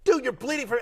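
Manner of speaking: high-pitched comic protest; mock disbelief. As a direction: imitate an incredulous opponent pointing out the obvious. Retold duel, opponent protests in disbelief.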